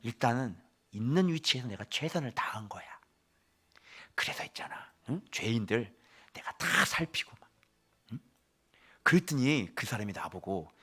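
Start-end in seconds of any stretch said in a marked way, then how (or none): 0.0-8.2 soft confiding whisper; whispering grandfather. Acted. Grandfather Joseph tells grandsons how he served prisoners, whispering. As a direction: murmur it like an old man's secret.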